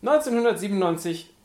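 loud, dramatic documentary voice; dramatic announcer. Pretend. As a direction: announce it like a trailer. Dramatic reading of blurb.

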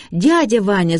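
a mild, high-pitched call; крик. A narrator's reading. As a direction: call out to uncle across the shop. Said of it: "закричала Шарлотта". (негромкий окрик повыше обычного)

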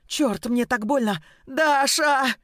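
woman in labour cries to her friend in pain; pained cry. Acted. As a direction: call for help through the pain. Labour pains begin.

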